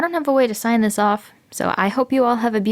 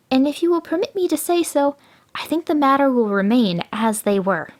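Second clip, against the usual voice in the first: gloating jackal; 7 semitones higher than usual. A narrator's reading. Jackal gloats over trapped tiger.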